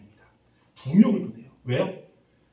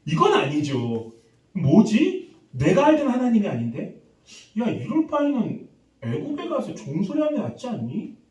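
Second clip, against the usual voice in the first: acted protest, higher and louder in bursts; indignant protest; 4 semitones higher, 3 dB louder than usual. Israelites objecting to God's order to fight, indignant protest. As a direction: object like someone suddenly balking.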